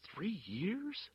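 high rising stunned question; stunned disbelief. A narrator's reading. Prisoner hearing his sentence, stunned and rising. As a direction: repeat it as if it can't be true. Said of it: "Fausto said stupidly".

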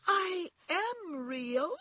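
very high, slow little rabbit; protesting toy rabbit. A narrator's reading. Toy rabbit protests to the wild rabbits, high and slow. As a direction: insist in a tiny high voice, each word drawn out. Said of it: "said the little rabbit".

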